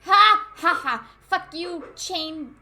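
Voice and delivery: loud mocking ha; gloating shout; triumphant laugh. Real, not acted. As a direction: laugh in victory. Mocking trap he dodged.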